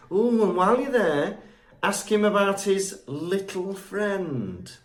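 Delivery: slow down meaningfully on the code words; coded hinting. Retold or imitated. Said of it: "she's trying to speak in code".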